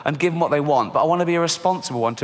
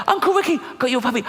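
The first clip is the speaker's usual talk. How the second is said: excited greeting; 8 semitones higher, faster than usual. Acted. Uncle greets running niece.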